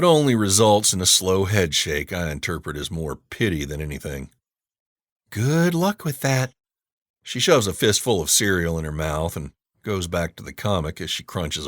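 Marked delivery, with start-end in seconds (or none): 5.3-6.5 dry pitying. A narrator's reading. Girl pities his milk chugging.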